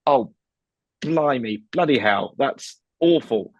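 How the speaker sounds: slow, mildly dismayed British reaction; understated British dismay. Acted. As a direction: take awful news with slow, mild dismay. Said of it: "that's being British".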